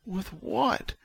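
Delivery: high, faint, confused question; Vic. A narrator's reading. Delirious patient questions June, weakly. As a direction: ask it feebly and dazed. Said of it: "He's delirious".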